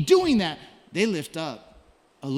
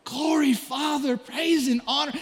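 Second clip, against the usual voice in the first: calling out; 6 semitones higher than usual. Pretend. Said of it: "begin to just call out".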